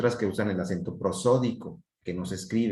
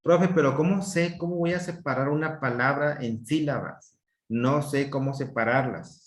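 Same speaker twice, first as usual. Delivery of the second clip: higher-pitched student voice; pupil's question; 4 semitones higher than usual. Acted. Teacher voicing a pupil asking for help, raised student voice. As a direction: pipe up like a pupil who doesn't know how.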